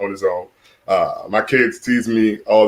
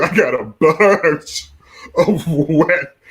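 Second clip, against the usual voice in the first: higher, heavily stretched BUNCH and WET; drawn-out emphasis; 5 semitones higher, much slower than usual. Real, not acted. Dad complaining about his kids, exaggerated drawn-out emphasis. Repeats punchline with drawn-out words.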